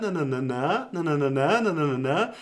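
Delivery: nonsense syllables, each group rising at the end; uptalk singsong. Shown as a demonstration. Mimicking the habit for viewers, rising na na na. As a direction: hum the upward lilt of uptalk. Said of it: "they go up with their voice at the end".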